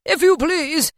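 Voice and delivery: high, loud, eager request; insistent Scrooge. A narrator's reading. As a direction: press it on him heartily. Scrooge insists on his donation.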